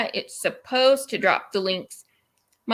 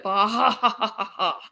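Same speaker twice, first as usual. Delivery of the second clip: evil laugh; 2 semitones lower than usual. Acted. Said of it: "I can't do that".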